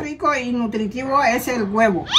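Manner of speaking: deliberate read-aloud delivery. Shown as a demonstration. Mother reading an egg advert on request, read aloud. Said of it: "hablar en voz alta".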